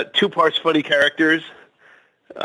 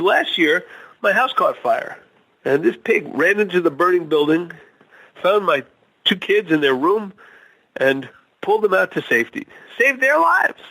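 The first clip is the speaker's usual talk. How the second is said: farmer's tale pitched higher, peaking very high on the last line; joke farmer voice; 6 semitones higher than usual. Acted. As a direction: build the hero-pig story up to a triumphant finish. Farmer character in told joke.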